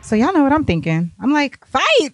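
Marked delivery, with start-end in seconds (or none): 1.7-2.1 shouted cheer. Retold or imitated. Cheering the two men on.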